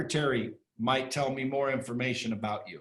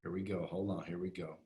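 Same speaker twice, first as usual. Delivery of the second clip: quiet fumbling; 7 semitones lower, 11 dB quieter than usual. Real, not acted. Fumbling to play a clip.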